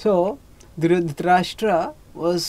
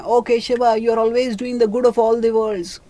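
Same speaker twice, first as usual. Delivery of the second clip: calling out; 4 semitones higher, 3 dB louder than usual. Acted. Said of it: "Dhritarashtra calls out to Krishna".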